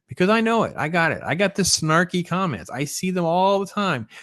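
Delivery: high-pitched teasing complaint; playful exasperation. Real, not acted. Host teasing about a snarky comment.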